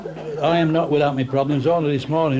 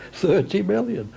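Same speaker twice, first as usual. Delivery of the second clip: incredulous repeat; 6 semitones higher than usual. Retold or imitated. Retold shock at the price.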